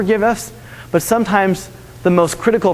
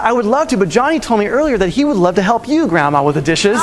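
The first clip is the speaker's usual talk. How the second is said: sly little sister; 3 semitones higher than usual. Retold or imitated. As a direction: play the sly sister sweetly.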